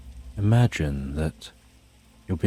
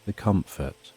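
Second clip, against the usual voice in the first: guided meditation. Acted. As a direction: lull the listener down gently. Guided sleep meditation countdown.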